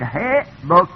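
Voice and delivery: ه بک with short e, then short o; kasra to damma. Shown as a demonstration. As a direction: slowly sound out ه بک as "he-bok". (ه بک، آهسته، از کسره به ضمه)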